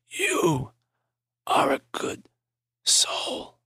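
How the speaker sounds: breathy unvoiced whisper, slow; thin raspy whisper. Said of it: "His voice was thin and raspy".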